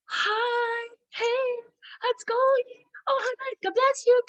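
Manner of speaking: very high, drawn-out sing-song hello; gushing greeting. Retold or imitated. Greeting oncoming drivers as dear friends, high gushing coo.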